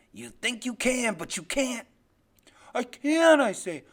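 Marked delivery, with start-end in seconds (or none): 0.1-1.9 slow, loud, forceful denial; menacing father. Acted. Father insists the boy can't remember, slow forceful voice. Father denies boy's memory. 2.7-3.4 put-on high, loud child's retort; defiant insistence. Boy insists to his father he remembers, defiant cry.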